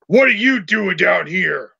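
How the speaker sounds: lightly voiced gruff challenger. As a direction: confront an intruder, a bit gruffly. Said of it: "you hear a gruff voice say".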